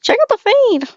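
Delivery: high, loud, goofy show-off voice; goofy barber customer. Retold or imitated. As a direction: squeal it like a hyped customer. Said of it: "He's like".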